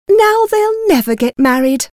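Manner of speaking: high, complaining wail of a wife; lamenting. A narrator's reading. Mother despairing over daughters' marriage chances, lamenting.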